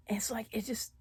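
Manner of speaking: choked up. Real, not acted. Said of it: "I'm not getting too emotional".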